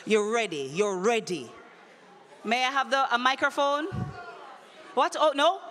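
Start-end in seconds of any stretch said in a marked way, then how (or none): 4.9-5.6 startled high outcry; surprised outcry. Real, not acted. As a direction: react with a sudden shocked shout. Host surprised by a disqualification.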